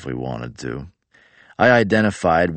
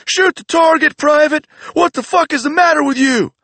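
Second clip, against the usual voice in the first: much higher, loud macho yelling; furious macho drill sergeant; 6 dB louder than usual. Retold or imitated. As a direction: scream at the recruit like Randy Savage. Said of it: "losing his fucking mind".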